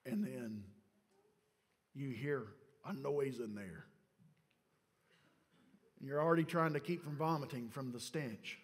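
low, soft storytelling with long pauses; hushed suspense. Acted. Preacher placing listeners at the silent tomb, hushed suspense. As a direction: let silence hang between phrases.

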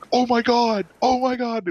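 put-on high, loud, giddy kid's squeal; freaking out. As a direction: gush it like a starstruck child. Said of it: "absolutely freaking out and loving it".

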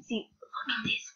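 hushed, breathy aside; whisper. Real, not acted. Vlogger whispering to viewers about a picture, hushed. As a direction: whisper it like a secret.

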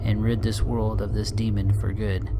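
earnest, lightly dramatic reading of a confession; solemn storytelling read; reading a letter aloud. Acted. Reads found game letter aloud.

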